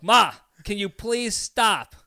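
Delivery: slow, drawn-out exasperated plea; frustrated plea. Retold or imitated. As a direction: drag it out, fed up with her. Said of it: "increasingly more frustrated".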